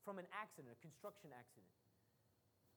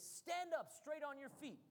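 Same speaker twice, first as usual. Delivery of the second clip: raised, slow preacher's command; loud command; 4 semitones higher, slower than usual. Retold or imitated. Paul commanding the lame man to stand, in a mildly raised voice. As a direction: mildly imitate a loud call, higher and drawn out. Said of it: "In a loud voice".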